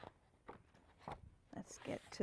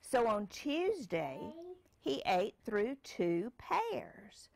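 put-on reading to a child; slower than usual. Parent reads picture book aloud.

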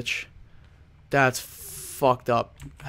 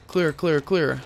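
mock soldier calling rooms clear; Navy SEAL callout; 2 semitones higher than usual. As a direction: bark it like a military sweep. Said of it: "Be a Navy seal right now".

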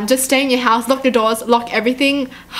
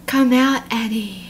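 creepy voice. Pretend. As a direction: call her out like a lurking stalker. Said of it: "that was creepy".

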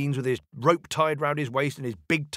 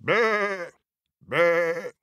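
high, alarmed goat bleats; higher-pitched goat in a fluster; middle billy goat; 5 semitones higher, much slower than usual. A narrator's reading. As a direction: bleat nervously, then plead. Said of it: "said the middle billy goat".

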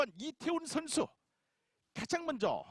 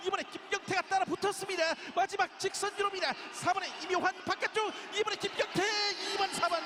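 excited race call; 5 semitones higher than usual. Real, not acted. Finish of a keirin race call.

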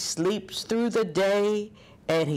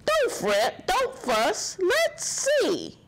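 high soothing mouse squeak; squeaky mouse; 11 semitones higher than usual. Acted. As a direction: reassure the bear in a tiny voice. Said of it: "Mouse squeaks".

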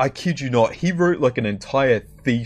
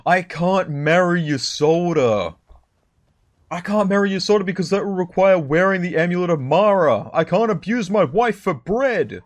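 mock despair; 5 semitones higher than usual. Mock dismay over Ysolda.

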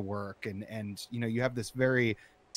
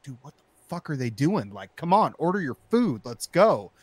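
rising frustrated shout at the van ahead; impatient yelling in car; 4 semitones higher, 7 dB louder than usual. Retold or imitated. Yelling alone in car at the minivan driver, impatient and angry. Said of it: "I'm like".

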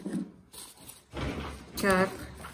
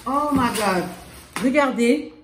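excited; 4 semitones higher, 5 dB louder than usual. Real, not acted. Overwhelmed by many gifts.

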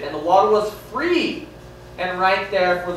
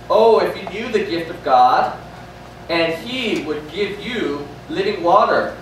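Jesus to the woman. Retold or imitated. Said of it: "Jesus said to her".

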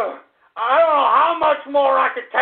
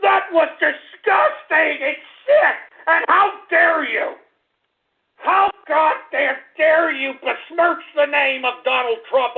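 shaking with anger; slower than usual. Acted. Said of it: "mock outrage at caller".

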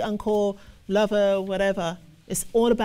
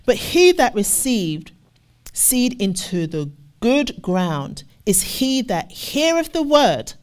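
loud, slow, weighty reading of the verse; emphatic scripture reading; 3 dB louder, slower than usual. Acted. Preacher proclaiming the verse to the church, loud and slow.

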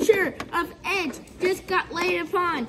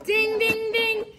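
excited ringside wrestling commentary; play-by-play commentary; 2 semitones lower than usual. Acted. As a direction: call the match live, hyped up.

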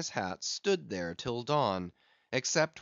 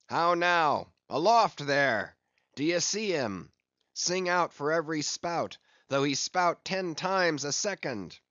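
calling aloft; 4 semitones higher, 4 dB louder than usual. Acted. Ahab calls to masthead.

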